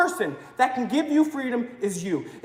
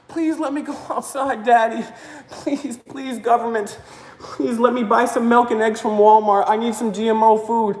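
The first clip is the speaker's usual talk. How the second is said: mock begging; 4 semitones lower than usual. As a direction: whimper it like a child begging daddy, half-mocking. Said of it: "even if we beg our masters".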